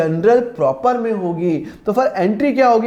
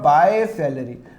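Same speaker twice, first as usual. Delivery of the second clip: slow and lower, words drawn out; slow dictation; 5 semitones lower, much slower than usual. Shown as a demonstration. Teacher filling in the cash book column, slow dictation. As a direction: say it as it is written in the book. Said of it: "तो मैं क्या करूँगा?".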